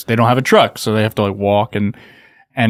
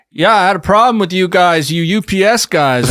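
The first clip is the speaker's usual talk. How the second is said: mock grumpy customer; 8 semitones higher than usual. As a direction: play the cranky guy complaining. Imitating complaining customer.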